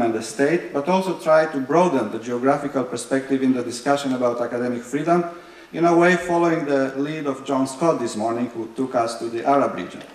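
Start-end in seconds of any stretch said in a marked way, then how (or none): none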